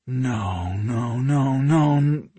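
rising run of objection; mounting protest. A narrator's reading. Brother objecting to the bundle, mounting protest.

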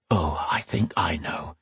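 soft, hushed reply; whispering. Acted. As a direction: say it just under the breath. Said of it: "Rian whispered".

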